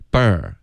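BIRTH with an open "er"; open-mouthed birth. Shown as a demonstration. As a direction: relax the lips and open up on "Birth". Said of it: "嘴巴张开".

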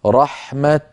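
رحمة ending in a stopped t. Shown as a demonstration. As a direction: halt on رحمة at its ta. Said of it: "فنقف عليها اضطرارا أو اختبارا". (الوقف على رحمة بالتاء)

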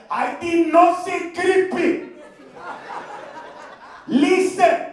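slow insisting. Retold or imitated. Worker slowly insisting.

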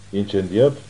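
mild surprised echo of "Incendiat?" rising at the end; exclaiming in disbelief. Acted. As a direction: ask back "Incendiat?" with a questioning rise. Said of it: "exclamă Christine".

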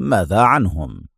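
low, guarded question; a touch of unease, pitch down; worried. A narrator's reading. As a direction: ask with understated concern. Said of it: "سأله أدهم في قلق".

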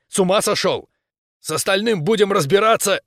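high, heated scolding; barked rebuke. A narrator's reading. Captain scolding Ramirez for volunteering, barking. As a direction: snap at him in alarm. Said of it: "рявкнул я".

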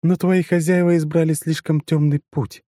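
strange alien voice. Acted. Possessed partner continues.

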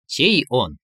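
mildly curious question; interested. A narrator's reading. Inner voice prompting a suitor, with interest. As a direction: ask with a lift of interest. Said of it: "заинтересованно произнёс голос".

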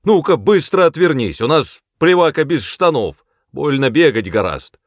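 high, loud, bossy shout; father still yelling at Saddie; angry orders. A narrator's reading. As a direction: drive her off sharply. Jack ordering daughter away.

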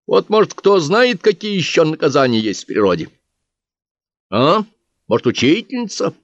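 lightly voiced bookkeeper answering hecklers. Bookkeeper speech to crowd.

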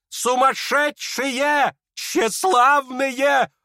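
high, very slow indignant outcry; outraged cry. Acted. Lizaveta denounces the guests, drawn-out outrage. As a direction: stretch each insult out in fury.

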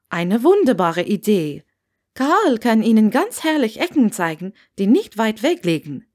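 a hint of an eager Scottish landlady; chatty landlady voice. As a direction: talk on and on at the new guest. Landlady enthuses.

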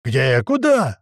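a loud, panicky pair of questions; yelling. Acted. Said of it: "заорали пацаны".

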